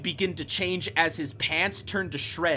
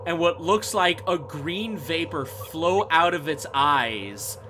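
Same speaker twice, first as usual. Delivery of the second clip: ordinary talk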